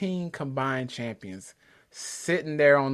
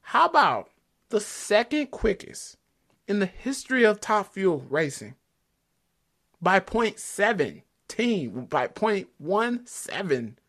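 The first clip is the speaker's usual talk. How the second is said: excited; 6 semitones higher, slower than usual. Real, not acted. Hyping the record margin.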